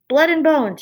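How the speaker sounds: high, loud rat cry; bloodthirsty rat calling out; shouted. A narrator's reading. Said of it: "shouted another".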